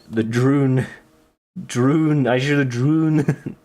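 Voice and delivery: mock Scottish, rolling the vowel in droon; a playful stab at a Scottish accent; half-hearted Scottish voice; bad Scottish accent. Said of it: "I'm not very good at Scottish".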